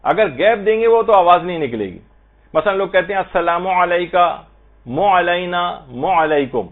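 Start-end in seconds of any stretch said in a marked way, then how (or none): 3.2-4.3 السلام علیکہ with the م and ع merged into moo; wrong blended reading; run-together moo sound. Retold or imitated. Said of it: "مو کی آواز نکالتے ہیں". 4.8-6.7 مو علینا said as one moo sound; wrong moo blend. Retold or imitated. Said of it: "مو کی آواز نکالتے ہیں".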